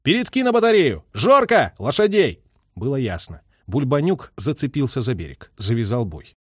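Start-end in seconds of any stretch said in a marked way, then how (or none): 0.0-2.4 loud, high excited command; officer yelling to the gun crew, excited; excited shout. A narrator's reading. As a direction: yell the orders over the gunfire. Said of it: "крикнул возбуждённо".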